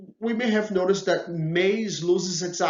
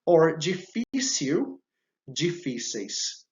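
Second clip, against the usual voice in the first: slow model words; slower than usual. Shown as a demonstration. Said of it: "teacher models word pairs".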